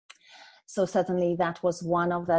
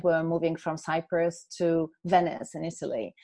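usual speaking voice

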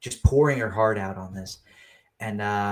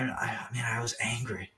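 whisper; 6 dB quieter than usual. Real, not acted. Confessing anger.

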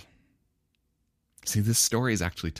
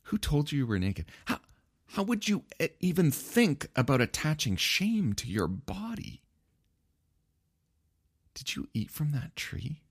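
God cutting to the chase; 9 semitones higher than usual. Retold or imitated. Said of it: "God cuts to the chase".

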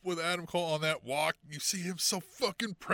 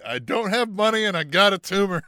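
louder, blunt self-intro; deadpan joke introduction; deadpan answer; 5 dB louder than usual. Pretend. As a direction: announce it flatly like a résumé line. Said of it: "I'm gonna say".

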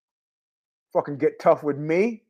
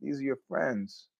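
mock guilt-trip; 3 semitones lower, 13 dB quieter than usual. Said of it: "the guy was like".

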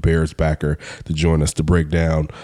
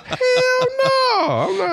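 laughing; much slower than usual. Real, not acted. Refuses to tweet swollen lip.

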